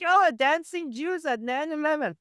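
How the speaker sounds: high mocking voice; mocking quote. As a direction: sneer it in a high voice. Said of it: "I'll be like".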